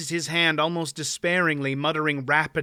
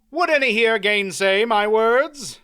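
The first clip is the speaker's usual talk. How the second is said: louder, higher ringing proclamation; formal declaration; 7 semitones higher, 6 dB louder than usual. A narrator's reading. Knight declares the baron vanquished, ringing. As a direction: pronounce the verdict to all.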